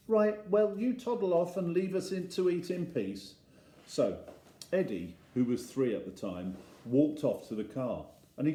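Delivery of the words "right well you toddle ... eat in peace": exasperated dad. Acted. Exasperated dad sending child off.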